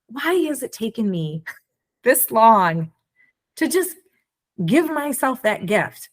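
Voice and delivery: high, amazed disbelief with a laugh; incredulous self-questioning; stunned realization. Retold or imitated. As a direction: marvel at your own delay. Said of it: "And I'm like".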